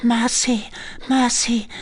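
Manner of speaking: high-pitched plea for mercy; frightened begging. A narrator's reading. Condemned girl begging the recluse, frightened. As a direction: beg in terror, pitched high.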